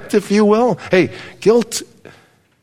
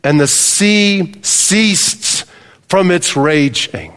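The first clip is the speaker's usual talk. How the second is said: scripture reading; 3 semitones higher than usual. Acted. Pastor reading Jonah's story to the congregation, solemn. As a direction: read the verses with weight, slowing at the end.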